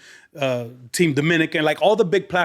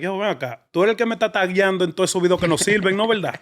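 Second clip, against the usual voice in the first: laughing teasing; 3 semitones higher, much faster than usual. Retold or imitated. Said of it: "he comes, he's like".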